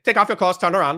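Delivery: doctor ordering a recruit to undress, in mock Asian accent. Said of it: "he's saying it with an Asian accent".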